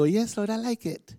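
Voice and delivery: high, light mock agreement; eager believer. Believer pretending to welcome God's word, mock eager. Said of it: "we don't go".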